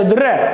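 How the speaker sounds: द्र rolled out as 'durr' to shoo a dog; द्र as a short rolled shooing noise; shooing call. Shown as a demonstration. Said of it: "हम उसको भगाते हैं".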